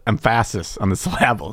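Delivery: EMPHASIS and SYLLABLES stressed on the wrong syllable; misplaced middle-syllable stress on EMPHASIS, SYLLABLES; shifted stress. Shown as a demonstration. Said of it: "We'll just change around the emphasis".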